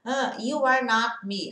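a slow, careful "you are not me"; slow demo. Shown as a demonstration. Teacher reads the example slowly for students. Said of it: "não separa só lá".

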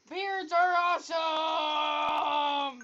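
slow, drawn-out loud declaration; loud proclamation. Shown as a demonstration. Boy announces to his YouTube viewers, slow loud proclamation. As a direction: proclaim it to the whole audience. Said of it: "Yes, YouTube".

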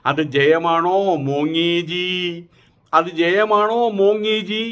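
slow, drawn-out mocking question; taunting. Real, not acted. Commentator mocks a leader's narrow win, taunting. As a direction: stretch each word into a jeer.

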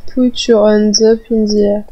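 hammed-up English party chant; mock English accent. Gamer chanting a techno lyric, playful French-accented English. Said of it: "mon accent anglais".

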